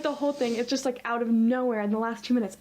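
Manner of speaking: ordinary talk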